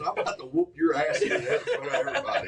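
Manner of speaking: laughing through the retold threat; can't hold the laugh while quoting; laughing quote. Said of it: "He told his son".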